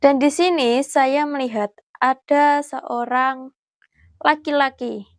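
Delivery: hushed, careful vlog voice; nervous night vlog whisper. Real, not acted. Hushed talk inside the grave.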